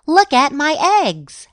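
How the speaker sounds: high-pitched proud exclamation; excited shout. A narrator's reading. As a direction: call out to show them off. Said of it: "she shouted".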